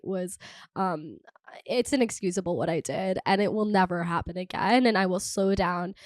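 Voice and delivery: low, subdued public-apology voice; mock-solemn apology. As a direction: apologize gravely, as if reading a statement.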